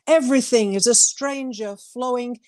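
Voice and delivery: measured reading of her own poem; unhurried poetry reading aloud. Acted. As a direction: read it as a gentle spoken-word poem. Reads poem from her book.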